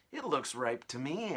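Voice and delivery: high, loud, bossy aunt calling; shrill aunt voice. Acted. Aunt calling her sister to the tree, high and loud. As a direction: screech it out like a nasty aunt.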